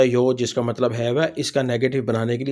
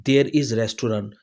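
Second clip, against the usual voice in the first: slow model reading; much slower than usual. Shown as a demonstration. Teacher models English slowly.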